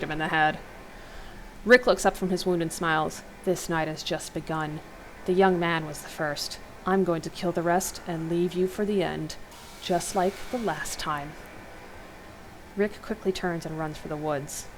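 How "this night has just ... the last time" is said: menacing killer. Acted. Killer threatens, low and slow.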